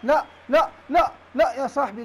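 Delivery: loud, dismayed no, no; loud protest. Real, not acted. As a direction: shout no at the bad pass. Bad pass in the game. (احتجاج بصوت عالٍ)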